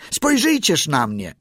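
high-pitched little holler; calling out. A narrator's reading. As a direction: call out high like a small seal. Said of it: "zawołał Kotik".

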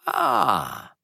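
Steerforth recalling, lightly voiced young man; a casual young gentleman's remark; exclaiming. Steerforth recalling the fisherman to David, lightly exclaiming. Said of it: "zawołał".

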